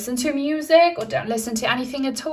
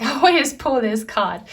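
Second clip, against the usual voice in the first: laughing; 2 semitones higher, 4 dB louder than usual. Real, not acted.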